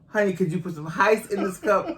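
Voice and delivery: "Heist" said with an H for ice; mock mispronunciation. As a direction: lightly imitate him asking for "Heist". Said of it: "or Heist".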